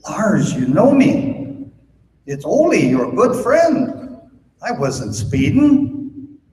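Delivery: a hint of a sweet-talking drunk; Ole pleading. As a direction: stretch it out like a tipsy friend begging off a ticket.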